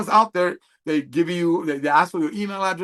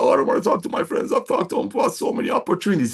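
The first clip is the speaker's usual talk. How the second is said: reluctant worry; 4 semitones higher than usual. Pretend. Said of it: "so don't worry about".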